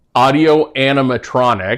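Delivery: animatronics: every syllable separated, slow, loud, careful. Showing a co-host how to say a tricky word again, saying it slowly. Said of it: "Gotta say it slowly".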